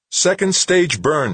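high, loud, slow repeat of "Second stage burn"; slow emphatic repeat. Acted. Comtech repeating the news to a stunned Wixon, slow and emphatic. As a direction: spell out "Second stage burn" slowly so it sinks in.

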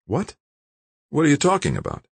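high, incredulous outburst; can't believe what he hears; shocked. A narrator's reading. Scientist reacting to being silenced, shocked.

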